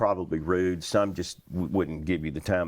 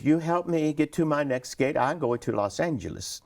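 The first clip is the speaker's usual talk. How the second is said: higher-pitched diva impression; Zsa Zsa Gabor; 8 semitones higher than usual. Celebrity asking flight attendant for help, higher imitated voice. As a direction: imitate an imperious celebrity passenger. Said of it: "before we landed, she said".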